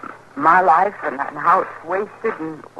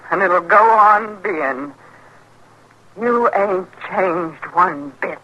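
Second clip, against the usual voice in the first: slow and heavy, hope gone; slow, resigned; slower than usual. Acted. Wife accepting her husband will never change, slow and resigned. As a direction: let each word sink in defeat.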